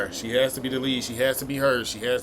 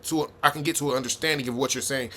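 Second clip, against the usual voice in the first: mock ideal woman; 2 semitones higher than usual. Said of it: "Instead of you telling me that".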